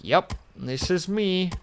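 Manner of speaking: a hint of a lazy easygoing fellow; mock carefree guy. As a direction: lightly voice a content drifter. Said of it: "He's just out here being like".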